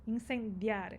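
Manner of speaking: "incendiar" with a plain d, no dj; Spanish d in "incendiar"; hard Spanish di. Shown as a demonstration. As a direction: say "incendiar" as in-sen-dee-AR. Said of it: "Mas aí o di".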